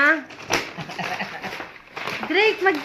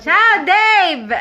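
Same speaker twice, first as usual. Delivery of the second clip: calling out; 5 semitones higher, 4 dB louder than usual. Real, not acted. Calling a greeting over a call.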